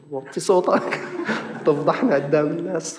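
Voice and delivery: amused shush in the street; laughing hush. Retold or imitated. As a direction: tell him to keep it down while laughing. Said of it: "هيك بالعريض قلت له".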